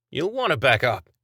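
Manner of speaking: called over the shoulder; calling out. Acted. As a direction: call it out. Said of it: "he called over his shoulder".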